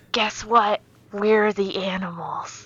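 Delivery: loud, drawn-out punchline; outro catchphrase. Shown as a demonstration. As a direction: demo a slow sign-off line. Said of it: "we could just say".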